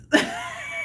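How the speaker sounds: short breath of a laugh; quick voiceless chuckle; real laugh. Real, not acted. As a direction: laugh briefly at your predicament. Laughs at her own predicament.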